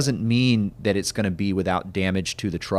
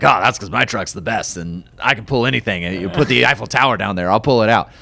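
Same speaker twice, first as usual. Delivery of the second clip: a touch of swaggering tow truck bravado, a bit louder; cocky tow truck driver; 4 dB louder than usual. Retold or imitated. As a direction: lightly boast like a tow truck driver who thinks his truck can pull anything. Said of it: "I don't know why all the tow truck drivers talk like this".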